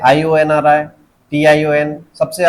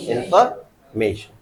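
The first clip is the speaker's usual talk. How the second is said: इन्फॉर्मेशन slow and softer, pause before stressed "may"; 5 semitones lower, 5 dB quieter, slower than usual. Shown as a demonstration. Teacher repeats for the class, इन्फॉर्मेशन split before stressed "MAY". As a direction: say इन्फॉर्मेशन slowly as "in-fer... MAY-shun". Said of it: "क्या बोलेंगे?".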